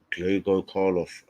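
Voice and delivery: "Diego Carlos" drawn out slowly; slow pondering. Real, not acted. Fan mulling over a centre back's name, slow pondering.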